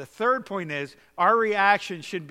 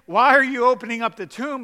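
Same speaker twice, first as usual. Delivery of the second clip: high, louder mocking voice of Martha; 6 semitones higher, 10 dB louder than usual. Preacher mimicking Martha refusing to open the tomb, mock high voice. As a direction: caricature her half-hearted faith. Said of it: "And she's there saying".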